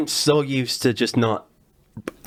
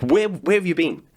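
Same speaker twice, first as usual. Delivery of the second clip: higher-pitched, incredulous plea to an audience; mock exasperated; 6 semitones higher than usual. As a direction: complain in mock disbelief, pitch jumping up. Acted exasperated reply to audience.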